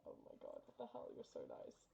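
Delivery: whispering as if too moved to speak; stunned whisper. Real, not acted. Overwhelmed streamer after donations.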